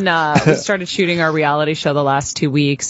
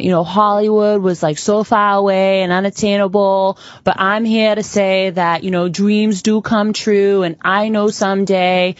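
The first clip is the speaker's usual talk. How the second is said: put-on earnest young pageant hopeful in a thick Boston accent, slowing down; deep Boston accent; 2 semitones higher than usual. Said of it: "this is my deep Boston accent".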